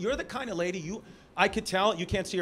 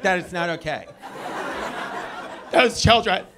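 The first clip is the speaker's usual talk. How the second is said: scolding teacher voice rising and louder to the end; stern teacher; 3 semitones higher, 6 dB louder than usual. Retold or imitated. Comic scolds himself as a frowning teacher would, loud and stern. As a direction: tell off a child, building louder. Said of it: "looking at me like a teacher".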